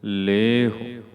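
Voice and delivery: ਲੇਹੁ with loud long "lay" and brief "hu"; emphatic model of ਲੇਹੁ, long then short. Shown as a demonstration. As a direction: hold the le of ਲੇਹੁ, keep hu short. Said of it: "ਇਹਦਾ ਦੀਰਘ ਉਚਾਰਨ ਕਰਨਾ ਹੈ".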